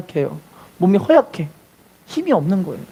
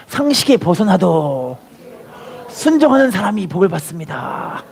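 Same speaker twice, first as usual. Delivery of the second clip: slow call to repeat; slower than usual. Shown as a demonstration. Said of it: "다시 따라합시다".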